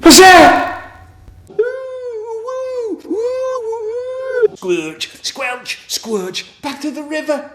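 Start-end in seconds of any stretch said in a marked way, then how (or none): 0.0-1.0 high loud startled cry; high loud alarm; alarmed shriek. Pretend. Sudden alarm in story. 1.5-4.6 very high sustained woo; high eerie woo; high hooting. Pretend. Ghostly hooting.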